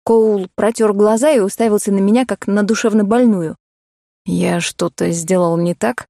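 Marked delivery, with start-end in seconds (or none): 4.2-6.1 puzzled man. Acted. Male voice, puzzled.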